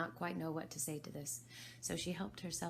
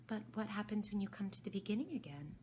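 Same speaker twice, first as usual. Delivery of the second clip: venturing Alice; 5 semitones higher, faster than usual. Acted. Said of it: "Alice ventured to ask".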